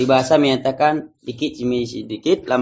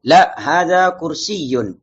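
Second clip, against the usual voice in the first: very slow, stretched model answer; drawn-out vowels, falling close; reading for repetition; 2 semitones higher, much slower than usual. Shown as a demonstration. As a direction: read it out slowly for the class to echo. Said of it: "Baik, kita baca bersama".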